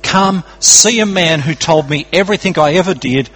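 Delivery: a touch of eager excitement, easing into a measured question; excited testimony. Acted. Samaritan woman telling her village about Jesus, mildly excited. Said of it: "Hear the excitement in her voice".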